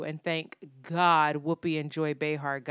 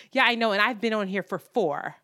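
mock spoiled-brat comeback, higher and louder; Meghan; 3 semitones higher, 5 dB louder than usual. Co-host boasting of four years on the show, mock bratty. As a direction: imitate a bratty retort. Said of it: "just being a spoiled little brat".

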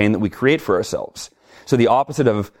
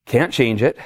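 calming self-talk; slower than usual. Retold or imitated. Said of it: "but I went".

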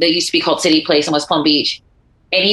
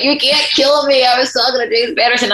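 gleeful defiance; 6 semitones higher than usual. Retold or imitated. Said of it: "I'm like".

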